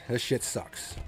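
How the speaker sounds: normal talking voice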